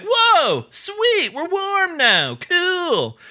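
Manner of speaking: put-on very high, drawn-out kid cheer; delighted kids. Kids just given coats, high delighted voices. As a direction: coo it up high, impressed. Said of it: "and they're like".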